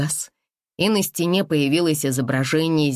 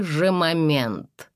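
slow, grand solemn proclamation; 3 semitones higher, much slower than usual. Acted. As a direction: proclaim it like a herald. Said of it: "торжественно провозгласил".

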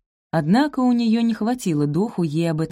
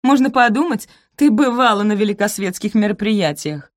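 sneering; 5 semitones higher, 5 dB louder than usual. Acted. Rosamund continues mocking.

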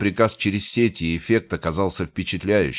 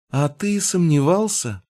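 smirking; 9 semitones higher than usual. A narrator's reading. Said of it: "Элара усмехнулась".

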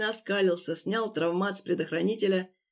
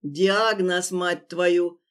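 barked; 4 dB louder, much slower than usual. Acted. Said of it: "рявкнул он".

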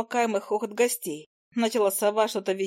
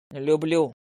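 lower, earnest confession; serious; 5 semitones lower than usual. A narrator's reading. Hunter seriously confessing love. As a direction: say it plainly and sincerely. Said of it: "серьёзно ответил Диас".

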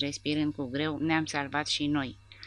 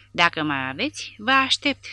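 defiant shout; 2 semitones higher, 6 dB louder than usual. Acted. Soldier shouting a challenge toward the battle, loud defiant taunt. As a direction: hurl a dare at the enemy. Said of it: "strigă el în direcția luptei".

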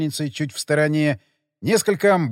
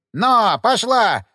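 loud, high parting shout; shouted farewell; 7 semitones higher, 6 dB louder than usual. A narrator's reading. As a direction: yell it back over the shoulder as the sleigh pulls off. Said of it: "крикнул он на прощание".

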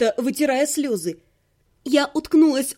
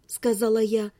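ordinary delivery, nothing marked

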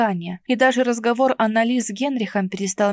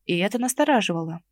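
ordinary talk, nothing marked

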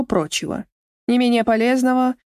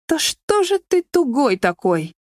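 передразнивая Мишу; 4 semitones higher, slower than usual. Acted.

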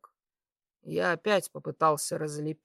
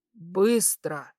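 louder, urgent order; sharp command; 3 semitones higher, 6 dB louder than usual. A narrator's reading. Patient hurrying unmoving staff out, sharp command. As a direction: hurry them up forcefully.

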